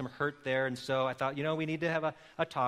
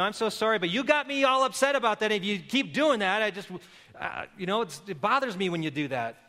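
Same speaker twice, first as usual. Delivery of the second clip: defensive apology; 5 semitones higher than usual. Shown as a demonstration. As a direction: justify yourself while apologizing. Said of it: "Don't say something like".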